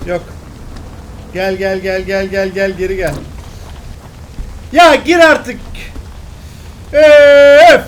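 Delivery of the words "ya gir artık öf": frustrated outburst. Real, not acted. Frustrated by failed shot.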